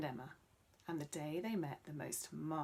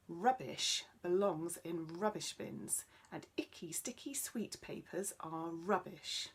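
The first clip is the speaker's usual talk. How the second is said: strange tree voice; 3 dB louder than usual. Acted.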